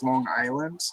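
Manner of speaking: LONG ISLAND with a hard G running into Island; New York-style "Lawn Guyland"; New York accent. Shown as a demonstration. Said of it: "because of that New York ac".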